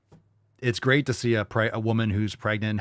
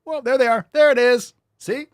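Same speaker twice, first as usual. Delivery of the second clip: high, loud triumphant reveal; excited discovery, pitched up; 12 semitones higher, 8 dB louder than usual. Real, not acted. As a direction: crow it like you found it.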